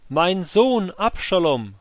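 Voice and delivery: weeping lament. Acted. King walking up to the gatehouse, calling out in weeping grief. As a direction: let the grief break through again. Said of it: "rief er im Gehen".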